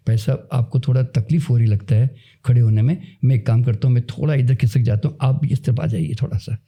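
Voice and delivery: gentle, caring offer to a stranger; kindly, compassionate. Retold or imitated. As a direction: make room for him with kindness. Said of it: "उसके अंदर दया, करुणा, प्रेम पैदा होता है". (दया और करुणा से, नरमी से)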